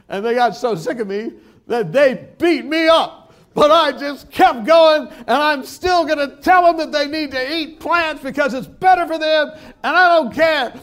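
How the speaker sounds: high, loud impassioned outburst; imitating an overwrought zealot; very emotional. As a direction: work up to a strained, defiant shout. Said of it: "he got all very emotional".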